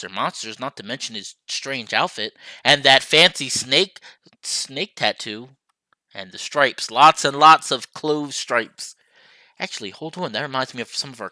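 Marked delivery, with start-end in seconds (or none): 2.6-9.0 slow, savoured words; drawn-out admiring stripes. Acted. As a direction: linger on every detail. Lingering over visitor's looks.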